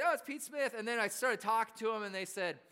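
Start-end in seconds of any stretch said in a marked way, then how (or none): 0.0-0.7 high mock schoolboy exclamation; imitated schoolboys. British schoolboys recognize Pete Smith, imitated high exclamation. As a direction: imitate boys spotting someone they know. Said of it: "they looked at me and they said".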